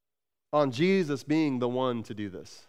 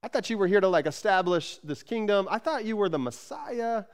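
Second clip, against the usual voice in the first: panicked disciples; 6 semitones higher than usual. Retold or imitated. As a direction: voice the disciples losing it over Jesus leaving. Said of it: "They, they're like".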